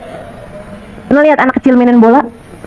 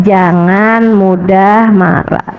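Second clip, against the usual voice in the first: very slow, low, patient counsel; gentle repeated advice; 5 semitones lower, much slower than usual. Acted. Prophet counsels the young man again, slow gentle warning.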